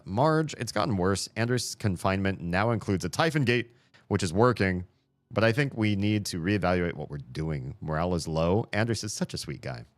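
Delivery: earnest worried colleague voice; reading email in character. Acted. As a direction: read it like a concerned coworker. Reads email aloud in character.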